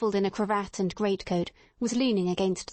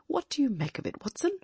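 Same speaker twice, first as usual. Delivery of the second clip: hushed whisper; 6 semitones higher than usual. A narrator's reading. Watching secretly at the window.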